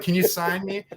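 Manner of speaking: high-pitched mock fan request; imitated girlfriend. Fighter imitating his girlfriend asking for an autograph, high mock-eager.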